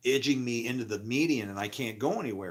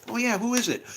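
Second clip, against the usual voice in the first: high, put-on casual voice; imitating the friend at the door; Scotty's voice; 11 semitones higher, 4 dB louder than usual. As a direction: pitch up as the friend calling out. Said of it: "He's like".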